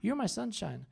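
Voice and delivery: soft, tender imitation; hushed, loving tone; imitating sweet wife. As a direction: repeat the endearment gently. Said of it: "I was so sweet".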